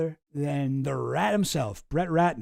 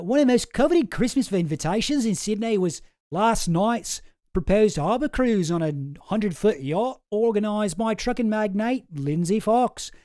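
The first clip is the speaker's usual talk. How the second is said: put-on a bolder retry of the Australian accent on the whole clipping; second try at Australian; 2 semitones higher than usual. Podcaster retries reading the clipping, in a bolder Australian accent. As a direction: give the Australian accent one more committed go. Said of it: "But I'll try, I'll try".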